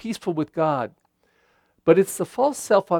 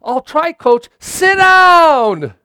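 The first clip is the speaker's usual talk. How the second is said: higher, louder eager player jumping up; bursting with pride, then the coach cuts in high; keen player's shout; proud and happy; 12 semitones higher, 11 dB louder, much slower than usual. Retold or imitated. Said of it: "he gets all proud and happy".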